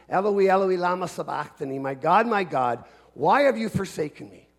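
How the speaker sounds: crying out. Acted. Preacher voicing Jesus on the cross, crying out. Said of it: "He's just cried out those words".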